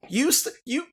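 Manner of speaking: put-on high, loud screechy old crone; a cranky old neighbor yelling at strangers, high and loud; old woman yelling warning. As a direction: shriek a warning about the wind. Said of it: "And she yells at you".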